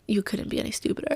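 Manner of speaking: whispered, soft self-mockery; self-scolding whisper. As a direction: hiss it at yourself. Scolding herself inwardly.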